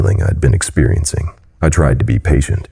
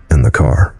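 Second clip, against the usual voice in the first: scoffing. Acted. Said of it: "I scoffed".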